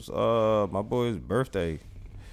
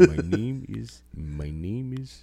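slow Dracula try; slower than usual. Pretend. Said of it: "Do your best Dracula impression".

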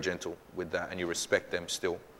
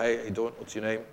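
gentle greeting; 4 dB quieter than usual. Retold or imitated. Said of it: "I'd be very gentle".

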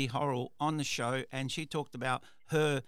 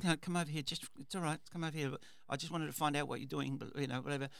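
softer, calm reassuring call; calmer; 5 dB quieter, faster than usual. Retold or imitated. Boss calming a frightened worker, soft and calm. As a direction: ease her over gently, softer. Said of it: "obviously a lot calmer".

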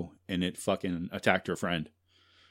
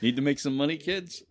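sleazy pitchman; 6 semitones higher than usual. Acted. Mock ad pitch.

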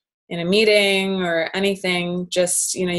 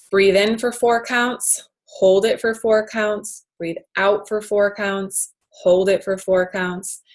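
counting slowly; 3 semitones higher, slower than usual. Shown as a demonstration. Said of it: "It's called the square breath".

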